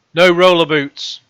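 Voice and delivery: slow, loud, emphatic proclamation; loud sign readout. Acted. Vlogger recalling a shop sign, loud slow announcement. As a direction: read it out like a stern ban, drawn out. Reads out shop sign's ban.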